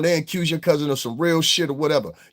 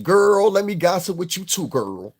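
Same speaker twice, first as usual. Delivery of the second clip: mock gossip voice; 3 semitones higher than usual. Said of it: "that's why they wanna sit with you".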